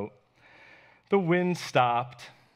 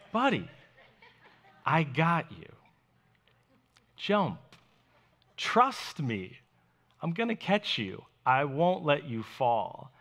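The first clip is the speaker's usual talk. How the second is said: reassuring, patient dad voice; loving father tone. Retold or imitated. Dad to son afraid to jump, tender reassurance. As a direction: coax gently, with pauses between phrases. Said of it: "This is Jesus's tone".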